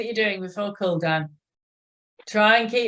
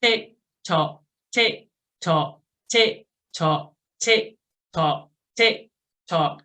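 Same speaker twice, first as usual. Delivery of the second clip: evenly spaced metronome tick-tock; steady ninety count; slower than usual. Shown as a demonstration. Coach setting ninety cadence for riders, steady count. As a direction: count out a steady beat, each word falling. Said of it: "going for ninety for a minute".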